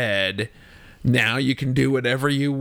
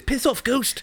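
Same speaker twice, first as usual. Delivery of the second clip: high, far Kiwi accent; New Zealand accent; 12 semitones higher, slower than usual. Shown as a demonstration. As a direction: toss off a cheeky Kiwi line. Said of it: "All you have to say is".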